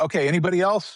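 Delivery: loud, high calling out.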